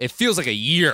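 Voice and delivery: angry voice. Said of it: "Angry voice".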